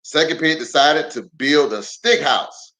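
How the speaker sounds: storybook read-aloud with lively swings; reading to children. Acted. Pastor reading a picture book aloud to kids online.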